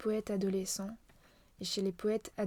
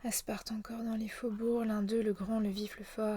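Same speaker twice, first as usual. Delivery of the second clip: poem recitation. Shown as a demonstration. Poet reciting a poem known by heart, verse recitation. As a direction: recite verse from memory, evenly measured. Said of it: "que je connais par cœur".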